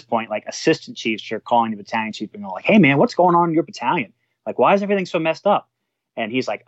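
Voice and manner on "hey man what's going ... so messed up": retold bewildered demand. Chiefs calling to demand answers.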